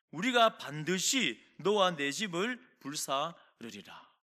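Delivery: slow, weighty Bible reading; solemn reading of the threat; scripture reading. Acted. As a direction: read the verse with gravity. Reads scripture aloud.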